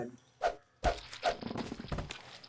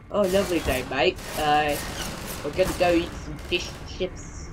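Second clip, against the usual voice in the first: put-on higher, caricatured British accent; mock British accent; 3 semitones higher than usual. Gamer showing how Americans think British sounds, mock British accent. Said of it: "What Americans think that the British really".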